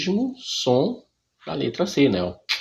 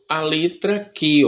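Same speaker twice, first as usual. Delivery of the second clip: slow demo; 4 semitones higher, 3 dB louder than usual. Shown as a demonstration. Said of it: "É assim que vocês vão aprender".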